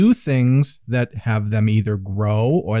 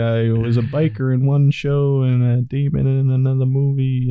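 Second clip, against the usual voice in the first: Ron Perlman impression. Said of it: "Do your best Ron Perlman impression".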